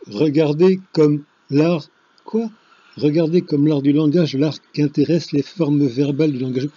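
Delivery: loud, emphatic recital opening; loud declaiming. Shown as a demonstration. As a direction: launch the line like a lecture from the stage. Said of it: "tu le lis toi-même".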